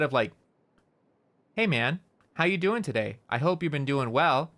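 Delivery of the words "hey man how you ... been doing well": raised, unfinished tune through "doing well"; going up. Shown as a demonstration. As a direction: keep each phrase up, "Hey, man" to "doing well". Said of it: "we tend to go up".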